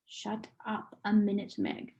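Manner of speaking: soft, hushed aside; whispered. Acted. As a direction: hush her under your breath. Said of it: "Calvin whispered to her".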